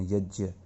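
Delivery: यज्ञ with a ज, not a ग; Sanskrit pronunciation. Shown as a demonstration. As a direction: say यज्ञ the pure Sanskrit way, with a j in the middle. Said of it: "वो ज बोलते हैं".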